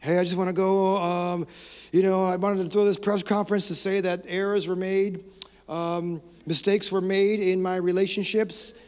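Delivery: a hint of a star at a press conference, lightly voiced; light send-up of a movie star's public apology; mock celebrity statement. Pastor mocking a movie star's press conference, lightly voiced. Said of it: "Hollywood apology".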